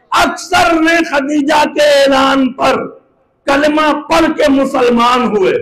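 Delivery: slow, drawn-out pulpit declamation; preaching proclamation. Acted. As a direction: stretch the words out to the whole congregation.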